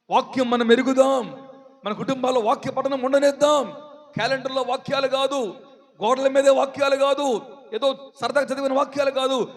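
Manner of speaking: insistent sermon delivery; exhorting preacher. Real, not acted. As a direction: urge the congregation point by point.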